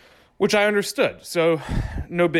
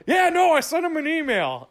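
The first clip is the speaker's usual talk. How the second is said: mock sheepish dad; 12 semitones higher than usual. Voicing sheepish father-in-law.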